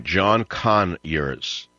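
"Conyers" stressed on CON, slow and drawn out; stress first syllable. Shown as a demonstration. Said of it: "Emphasis on the first syllable".

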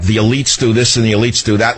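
mock their fake populism; high mocking imitation of rich pundits; mocking the conservatives. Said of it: "saying, like".

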